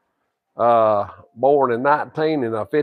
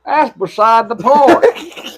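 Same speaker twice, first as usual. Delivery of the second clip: dismissive; 7 semitones higher, much slower than usual. Real, not acted. Dismissing grandson's jab.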